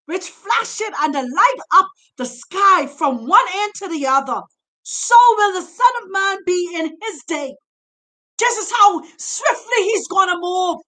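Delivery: rising, shouting sermon delivery; preaching. Acted. Preacher urging Bantus to leave, fiery and shouting. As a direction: preach it hard to the congregation. Preacher exhorting congregation at full force.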